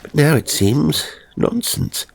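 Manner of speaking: wondering aloud, bemused and curious; newly dead gentleman musing. Acted. A dead man puzzling over time to himself, lightly bemused.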